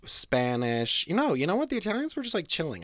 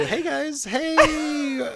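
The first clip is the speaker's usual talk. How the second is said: bright, higher intro greeting; youtuber intro; 11 semitones higher, 4 dB louder, much slower than usual. Retold or imitated. Host switching back to his video intro voice, higher pitch. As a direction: open like a vlog host. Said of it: "I'm back to".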